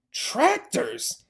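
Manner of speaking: high rising alarmed shout. Acted. Mr Fox warning his family, high alarmed shout. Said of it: "shouted Mister Fox".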